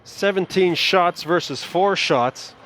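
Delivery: steady live game call; hockey play-by-play. Acted. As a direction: call the action for the stream.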